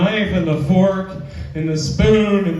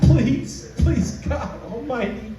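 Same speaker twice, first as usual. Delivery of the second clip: high, hammed-up desperate begging; praying his girlfriend is not pregnant, hammed up; mock pleading; 6 semitones higher than usual. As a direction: beg the heavens in mock panic. Desperate prayer against pregnancy.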